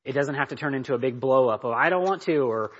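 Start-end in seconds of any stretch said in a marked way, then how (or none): 1.7-2.4 higher, slightly louder objection; lightly acted balking child; mock child protest. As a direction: imitate a kid refusing. Mimics a child's blow-up.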